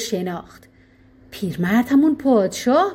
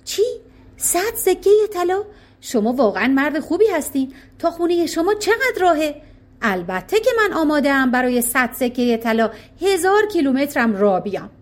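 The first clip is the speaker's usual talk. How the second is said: happy excited; 4 semitones higher than usual. Acted. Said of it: "با خوشحالی گفت".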